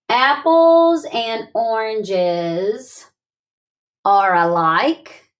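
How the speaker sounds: slow, deliberate, spaced out; slow thinking voice. Shown as a demonstration. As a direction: think it through aloud, slowly. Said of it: "Use your thinking voice".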